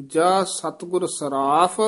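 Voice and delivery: stretched ਸਰਾਫ, then a brief break; slight pause after ਸਰਾਫ. Shown as a demonstration. Teacher marking the short break, pause after ਸਰਾਫ. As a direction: lengthen ਸਰਾਫ and hold back briefly. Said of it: "ਇੱਥੇ ਠਮਕ".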